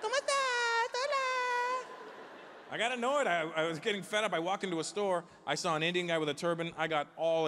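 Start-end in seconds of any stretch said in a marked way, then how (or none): 0.0-1.9 very high, sing-song Hola calls; everybody's greeting. Retold or imitated. Comic mocking everyone greeting him in Spanish. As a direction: trill it up like an overeager greeter.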